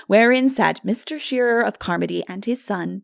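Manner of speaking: ordinary delivery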